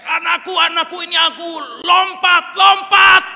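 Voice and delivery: high full-force shout upward; urgent yelling. Acted. Father below burning house urging child to jump, yelling. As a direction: holler up to a trapped child. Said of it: "dia langsung teriak".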